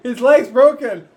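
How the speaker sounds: slow, high, loud call; mock shout. Player insisting to those across the wagon, high shout. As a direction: call it out loudly, drawing the words out.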